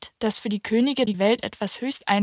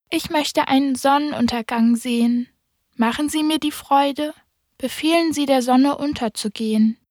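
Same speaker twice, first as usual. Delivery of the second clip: put-on higher, gently begging child; pleading little prince; 5 semitones higher than usual. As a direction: ask the king as a favour. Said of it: "bat den König um Gnade". (bittender kleiner Prinz)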